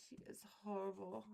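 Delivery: fast hushed whisper of disapproval; whispered aside. Real, not acted. Streamer whispering to chat about a rude guest. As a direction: lean in and whisper it quickly.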